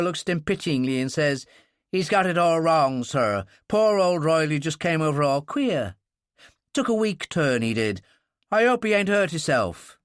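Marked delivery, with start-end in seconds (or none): 1.9-10.0 a touch of a worried stoker; lightly voiced sailor, a little anxious; mild anxious stoker. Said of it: "He sounded quite anxious".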